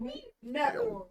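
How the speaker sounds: wide-eyed fake innocence; innocent act. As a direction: sell the innocence better, coyly. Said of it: "That's better".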